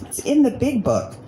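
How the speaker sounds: imitating a friend's hushed whisper; a playful mock whisper, sharing a secret answer. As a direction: breathe it like a secret. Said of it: "And she goes".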